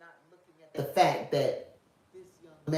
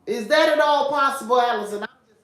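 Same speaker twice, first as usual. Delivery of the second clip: loud, high, probing question; conspiracy radio host; 6 semitones higher, 12 dB louder than usual. Pretend. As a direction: push the question like a conspiracy theorist. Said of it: "in my conspiracy theorist voice".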